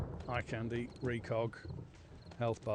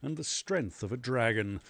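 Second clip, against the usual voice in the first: rhyming recital; 4 dB louder, slower than usual. Acted. Reciting rhyming character bio.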